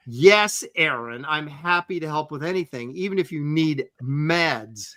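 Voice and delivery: demonstrated proper reading. Shown as a demonstration. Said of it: "This is how it should be read".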